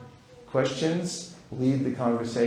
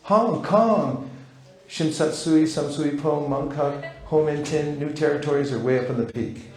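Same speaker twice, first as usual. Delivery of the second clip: mock delight. Shown as a demonstration. Enthusiastic reply in role-play demo.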